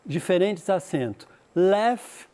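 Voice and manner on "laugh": American laugh. Shown as a demonstration. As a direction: Laugh with a flat American a, like "lef".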